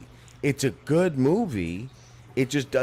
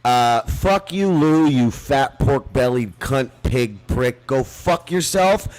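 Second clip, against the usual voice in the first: cursing him out in real anger; heated tirade at an absent enemy; furious rant. Real, not acted.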